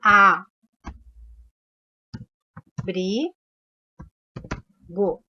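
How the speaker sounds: spaced out A, Bri, Go with pauses; syllable by syllable. Shown as a demonstration. Teacher splitting "abrigo" for the class into syllables. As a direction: split "abrigo" into slow separate beats. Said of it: "Aqui na palavra abrigo".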